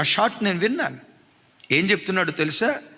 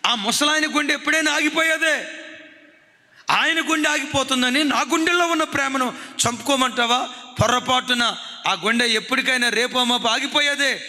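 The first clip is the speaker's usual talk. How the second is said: daughter defying her mother, higher and defiant; a defiant daughter answering her mother back, pitched higher; 5 semitones higher than usual. Retold or imitated. Defiant daughter defending her love to her mother, raised pitch. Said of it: "కూతురు మాట్లాడే మాట చూడండి".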